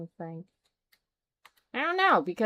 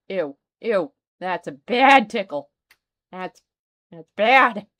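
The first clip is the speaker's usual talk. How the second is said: disgusted; 3 semitones lower, 9 dB louder than usual. Real, not acted. Disgusted game reaction.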